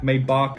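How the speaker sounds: "Maybach" as MAY-bark; alternate pronunciation. Shown as a demonstration. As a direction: open "ah" in the second half of "Maybach". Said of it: "I kinda change between".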